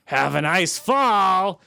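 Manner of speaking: lightly mocking Chucky quip; quoted killer-doll quip. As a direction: deliver a corny villain one-liner, slowly. Quoting Chucky's old quip.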